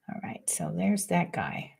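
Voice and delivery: unvoiced whisper aside. Real, not acted. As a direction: whisper to yourself.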